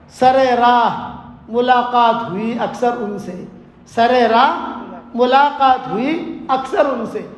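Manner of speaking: slow poetic recitation; reciting verse. Acted. Laila answering with a single couplet, slow recitation. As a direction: draw out each word of the couplet. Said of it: "لیلا نے صرف ایک شعر پڑھا".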